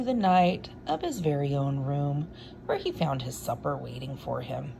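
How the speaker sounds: lively read-aloud storytelling voice; story narration. A narrator's reading. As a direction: read it like a bedtime picture book. Reads picture book aloud.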